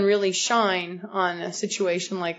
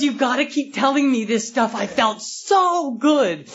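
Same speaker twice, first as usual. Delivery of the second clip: retelling through laughter, a little louder; laughing retelling; 3 semitones higher, 3 dB louder than usual. Retold or imitated. Sponsor retelling his sponsee's delight, laughing. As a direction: let the laugh carry the words.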